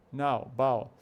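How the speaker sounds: BOW rhymed with NOW, "ow" glide; match BOW to the vowel of NOW. Shown as a demonstration. Teacher linking a rare word to a familiar one, bow like now. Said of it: "a pronúncia dele é próxima do now".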